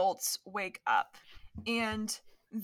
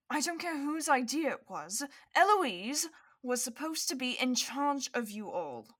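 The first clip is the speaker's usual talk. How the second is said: higher, emphatic, controlled scolding; stern father reprimand; 3 semitones higher than usual. Acted. Father reprimanding Eloise and her friends, stern. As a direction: dress them down without shouting. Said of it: "her father has yelled at her".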